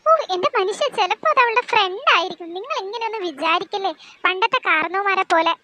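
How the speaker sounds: a mother throwing up her hands; exasperated mother. Acted. Mother voice continues.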